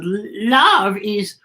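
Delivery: slow, gently voiced wise woman; Beatrice's voice. A narrator's reading. Beatrice telling Z what love is, gently. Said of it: "She said".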